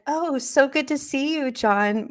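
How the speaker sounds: imitated polite, composed greeting; trying to play cool. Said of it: "trying to be like".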